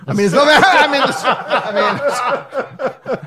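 laughing. Real, not acted. Admitting he can't help, breaking into laughter. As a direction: dissolve into laughter mid-sentence.

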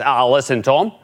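hammed-up Australian boss accent, ending in a high shout; a borderline offensive Australian accent, firing Tom with a grin. Murdoch firing an employee over a trap door, in a mock Australian accent. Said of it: "borderline offensive Australian accent".

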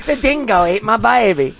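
laughing mock Australian. Friend laughs and quotes the dingo line in mock Australian. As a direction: crack up while hamming the dingo quote.

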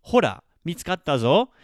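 proud little call on finding it; mildly excited find. Shown as a demonstration. Teacher demoing the Japanese line to learners, mildly excited. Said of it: "it would be".

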